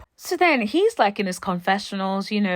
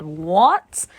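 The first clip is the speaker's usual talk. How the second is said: shocked what; 6 dB louder than usual. Retold or imitated. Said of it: "I said".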